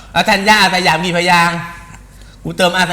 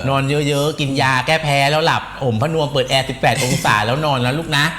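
low, soothing mum voice; lowered voice, sweetly patronising; mock motherly advice; 4 semitones lower than usual. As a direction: pretend to lull a child to bed. Mock-motherly advice to absent person.

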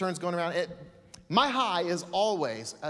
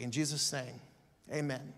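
prayer. Real, not acted. Pastor prays aloud to the congregation.

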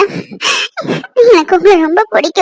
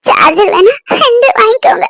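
tearful plea; 3 semitones higher than usual. Acted. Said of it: "அழாத பூமாரி".

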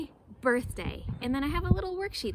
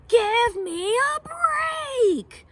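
loud, high, fed-up roar; lion roaring; 10 semitones higher, 6 dB louder than usual. Acted. Lion snaps back at Monkey, loud fed-up roar. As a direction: roar it out in exasperation. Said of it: "Lion roared back".

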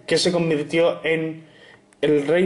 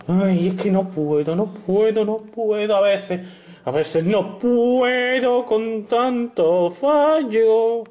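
frustrated; 3 semitones higher, slower than usual. Real, not acted. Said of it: "Que me molesta tela".

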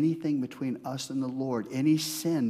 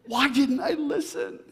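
regret; 14 semitones higher, 5 dB louder than usual. Pretend. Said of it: "I don't want that moment to be".

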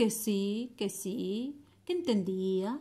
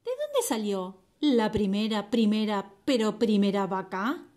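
flea voice; 3 dB louder than usual. Acted. Flea voice, far timbre.

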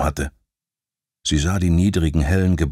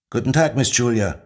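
dutiful group reply, lightly voiced; class in chorus; 4 semitones higher than usual. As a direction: answer like a class in unison. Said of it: "ertönte es im Chor".

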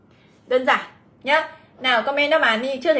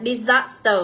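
"disaster" stressed on SAS; stress on second syllable; slower than usual. Shown as a demonstration. Teacher reading option D, "disaster" stressed on its second syllable. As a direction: lean on the middle syllable of "disaster". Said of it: "đây là âm số hai".

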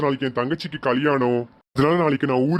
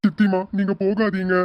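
put-on higher-pitched, sad little-kid voice; tearful child; 4 semitones higher than usual. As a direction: play a child upset about being left behind. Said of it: "அழுக கூடாதுன்னு சொன்னேல". (அழும் குழந்தையின் குரல்)

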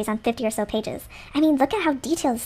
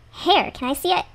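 higher-pitched odd character voice; weird voice; 6 semitones higher than usual. Acted. Player asking to see the diary, in a weird voice. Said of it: "that was a weird voice".

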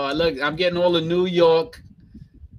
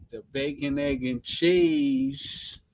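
slow New York "bacon, egg, and cheese" run together as one word; New York accent; 3 semitones lower, slower than usual. Shown as a demonstration. Showing viewers the real New York way, slow. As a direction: drag it out like a bodega order. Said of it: "That's real New York right there".

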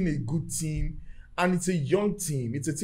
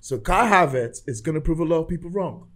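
measured, serious British accent. Shown as a demonstration. Fan vouching for the new signing, British accent. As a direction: declare it firmly in a British accent. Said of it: "talk in my British accent".

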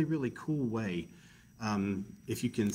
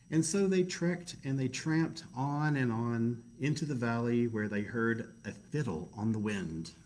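story narration. A narrator's reading.

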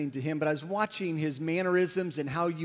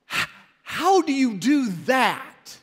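higher, louder amazed question; stammered, raised-voice disbelief, retold; awed outburst; 6 semitones higher, 6 dB louder than usual. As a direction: blurt it out, astonished. Awed young man questions preacher.

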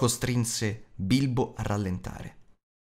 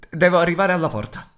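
higher, louder, more pressing; urgent repeat; 7 semitones higher, 6 dB louder, faster than usual. Acted. Bilbo urging himself toward the door amid the orcs, higher louder urgent. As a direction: say it again as panic rises.

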